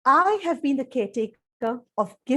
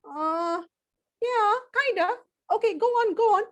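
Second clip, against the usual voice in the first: impatient pig; 7 semitones higher, faster than usual. Acted. Mister Pig hurrying the storyteller along, impatient.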